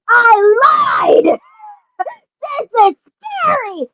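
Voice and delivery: high mocking taunt with a laugh; cackling brother springs his prank; teasing brother. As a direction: gloat like a bratty big brother.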